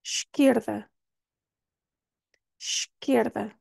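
Esquerda with an sh sound at the start; model pronunciation. Shown as a demonstration. Teacher modelling Esquerda, sh at the start. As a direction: begin Esquerda with sh. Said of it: "tem um som de sh".

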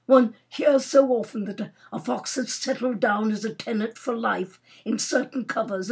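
lightly voiced grumbling Major; moody. Major complaining of blank hunting days, moody. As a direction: air a grievance, stressing key words. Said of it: "said the Major moodily".

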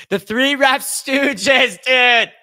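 laughing loudly, high and drawn out. Real, not acted. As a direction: cackle the words out in disbelief. Mocking the referees, laughing.

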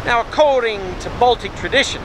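shouting over wind. Real, not acted. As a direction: call out above the roaring wind. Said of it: "If you can hear me over the wind and the surf".

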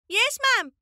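eager schoolchildren's chorus reply; the whole class calling back to the teacher. Acted.

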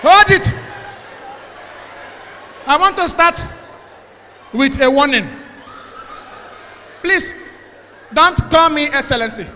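a hammed-up official banning beer by decree; mock big-man official. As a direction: boom it like a pompous governor. Mock official announcing a beer ban.

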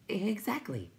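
very high little voice; timid creature. A narrator's reading. Will-o'-the-Wisp confirms its errand, high little voice. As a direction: answer in a tiny high pipe.

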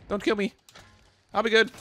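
playful fake begging for your life; mock pleading. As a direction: beg for mercy in a hammed-up squeak. Begging the enemy in game.

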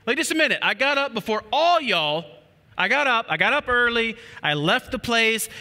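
a hint of tired exasperation; just asking for one minute; weary plea. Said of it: "Jesus has been like".

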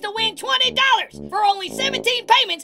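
pushy infomercial pitch; hard sell ad. Acted. Infomercial upsell.

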